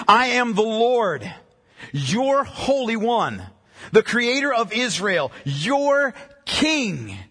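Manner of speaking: slow, weighty declaration with deliberate pauses; solemn scripture reading. Acted. Preacher reading God's words to Abram, slow and solemn. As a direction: read it out slowly, phrase by phrase. Reads scripture aloud slowly.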